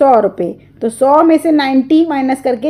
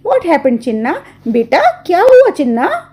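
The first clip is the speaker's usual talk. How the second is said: gently; 5 semitones higher than usual. Acted. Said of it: "She asked gently".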